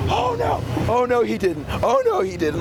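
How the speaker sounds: high mock outraged diva, pitch shooting way up; imitating an outraged drag queen whose wig got pulled; sassy freak-out. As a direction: squeal it like a scandalized drag queen. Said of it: "she freaks out".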